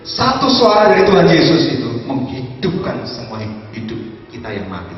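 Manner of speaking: full-force sermon cry; fiery preaching. Acted. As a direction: proclaim life into dry bones.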